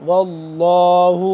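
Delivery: واللہ with a full thick ل, slow; heavy Allah. Shown as a demonstration. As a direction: fill out the ل of واللہ. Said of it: "لفظ اللہ پر کر کے پڑھیں گے". (واللہ میں لفظ اللہ پر کر کے)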